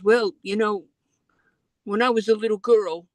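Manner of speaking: Elizabeth's voice. Retold or imitated. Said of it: "And she says".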